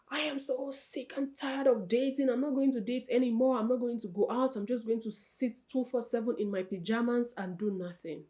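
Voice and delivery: lightly acted whine of the fed-up single; fed-up dater. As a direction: imitate someone giving up on dating. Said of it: "it breaks my heart sometimes when people are like".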